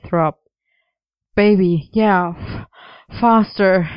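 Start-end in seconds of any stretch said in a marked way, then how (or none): 1.3-3.9 louder, broken plea between gasps; choked gasps. A narrator's reading. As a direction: gasp it out urgently, stumbling mid-word. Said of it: "choked around quiet gasps".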